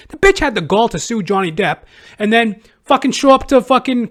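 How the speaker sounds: high, loud outraged rant. Real, not acted. Vlogger ranting loud and high about her copying Depp.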